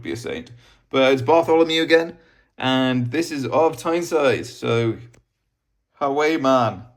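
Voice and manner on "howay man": best-effort Geordie accent, a little raised; lightly put-on Geordie accent. Shown as a demonstration. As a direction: give it your best Geordie call. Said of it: "in my best Geordie accent".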